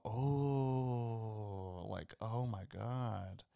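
slow, hushed realisation; awed reaction. Retold or imitated. Fan recalls hearing the clue in the film, awed.

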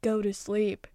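firm bedtime order; a parent's firm "go to sleep"; command tone. Shown as a demonstration. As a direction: tell them to go to sleep, no arguing. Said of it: "in a command tone".

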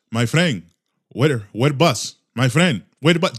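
broken English in a put-on Hispanic accent; caricatured Hispanic-accented English; mock foreigner accent. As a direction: imitate someone faking a Hispanic accent, chopped up word by word. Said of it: "talk to foreigners in their foreign English accent".

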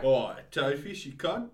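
loud mock-Australian greeting; Australian accent. Shown as a demonstration. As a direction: hail a mate in put-on Australian. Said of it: "What's Australian?".

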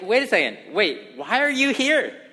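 hint of being caught off guard; lightly surprised questioning; mildly startled. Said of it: "He's startled".

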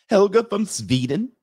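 high, slow mock Swedish lilt; mock Swedish accent. Streamer announcing a Swedish woman, mock Swedish accent. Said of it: "They don't talk like that, by the way".

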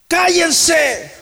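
very high, forceful command; rebuking shout. Acted. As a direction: silence the demons with a shout. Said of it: "les reprendía mucho".

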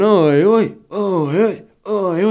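high, loud repeated hooting oi; mock jeering call. Imitating man pushing van, calling out.

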